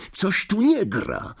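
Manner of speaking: high, drawn-out exclamation; alarmed cry. A narrator's reading. Ron notices the invisibility button failing, alarmed cry. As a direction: voice leaps up in alarm. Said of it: "krzyknął Ron".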